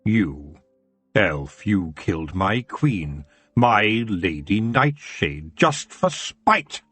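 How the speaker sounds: low slow menace, rising on spite; growled accusation. Acted. Elf king accusing Peaseblossom, a low menacing growl. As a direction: chew each word with cold fury. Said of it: "he growled".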